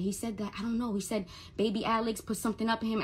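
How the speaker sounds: imitating her own flustered stammer; retold halting phone report. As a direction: break off and restart as if confused. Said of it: "I'm talking like that".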